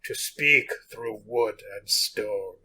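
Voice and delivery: slow, solemn olden-times reading; spooky archaic voice. Acted. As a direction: intone it like an old ghost tale. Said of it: "that was my, my spooky voice. My spooky, archaic voice".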